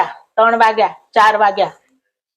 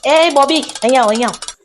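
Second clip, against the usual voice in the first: calling out; 5 semitones higher than usual. Retold or imitated. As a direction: stretch the name out like calling across a room. Calling out to a friend. (લાંબો ખેંચીને બૂમ પાડવી)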